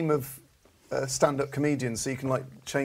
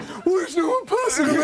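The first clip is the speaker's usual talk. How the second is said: mock indignant shout; 13 semitones higher, 4 dB louder than usual. Game player calling out.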